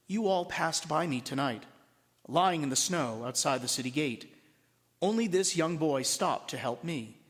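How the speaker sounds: lightly voiced wise old man; gentle rebuking keeper. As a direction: chide the crowd kindly, without raising the voice.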